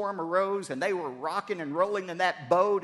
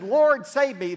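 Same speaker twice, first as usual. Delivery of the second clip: desperate cry; 8 semitones higher, 11 dB louder, slower than usual. Acted. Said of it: "when Peter said".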